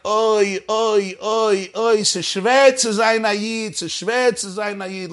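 a hammed-up sigh of a weary Jew; half-mock oy vey lament. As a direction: groan it like an old complaining grandfather. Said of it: "like they used to say".

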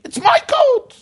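acted-out possessive scream; retold inner scream. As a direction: burst out far up in pitch. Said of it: "you know what I was screaming?".

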